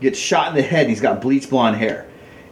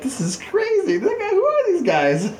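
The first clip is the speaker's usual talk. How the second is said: imitating a bewildered self; mock disbelief. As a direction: gasp it out in fake alarm. His disbelief, retold.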